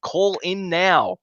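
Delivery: upbeat phone-in ad read; competition promo read. Acted. Host urging viewers to call in, radio ad style. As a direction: read the number like a radio contest ad.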